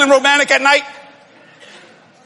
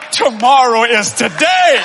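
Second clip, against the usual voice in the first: eager husband; slower than usual. Retold or imitated. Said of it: "You're just thinking".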